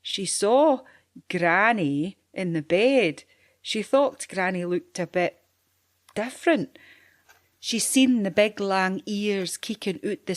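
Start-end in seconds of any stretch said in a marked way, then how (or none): none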